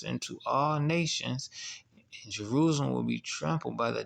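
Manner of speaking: solemn scripture reading. Acted. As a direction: read the warning verse solemnly. Reads Luke aloud.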